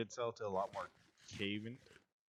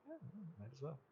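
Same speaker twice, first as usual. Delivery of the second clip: mock shrug; 3 semitones higher, 14 dB quieter, much faster than usual. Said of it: "And it was like".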